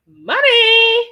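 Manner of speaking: high, loud and slow, savouring every word; slow excited drawl; delighted, drawn out. Real, not acted. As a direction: relish the phrase. Reading chat, delighted.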